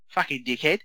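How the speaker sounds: a hint of an elf-like little boy echoing dad; sweet little kid voice. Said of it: "such a little sort of sweet little voice on him".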